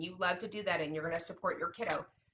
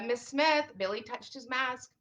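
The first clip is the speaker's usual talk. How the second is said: put-on tattling child; 5 semitones higher than usual.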